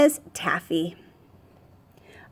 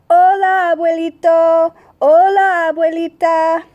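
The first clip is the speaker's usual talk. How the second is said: put-on higher and louder little girl calling hola; excited child greeting; 6 semitones higher, 4 dB louder than usual. A narrator's reading. Child greets Spanish grandparents.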